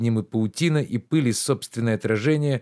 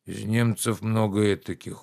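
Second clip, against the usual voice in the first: sullen. Acted. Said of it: "угрюмо сказал Захар".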